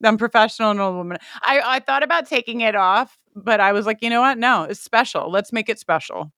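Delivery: talking with a retainer in. Real, not acted. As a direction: speak around a dental retainer. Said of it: "which I'm wearing right now".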